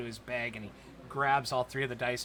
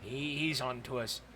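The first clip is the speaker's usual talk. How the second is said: low, softer worried aside; nervous dwarves; 3 semitones lower, 7 dB quieter, slower than usual. Acted. Dwarf cheats muttering to each other, low and soft. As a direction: hush it to your partner in crime. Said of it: "they kinda like".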